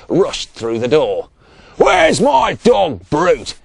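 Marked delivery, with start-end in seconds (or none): 1.8-3.6 loud, high, slow shout; yelled. A narrator's reading. Ratso rushing in after his dog, yelling. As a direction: yell out for the missing dog. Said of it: "yelled Ratso".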